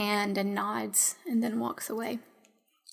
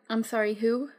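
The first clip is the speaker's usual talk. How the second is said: whisper; faster than usual. Acted. NPC whispering back, asking who Jacob is.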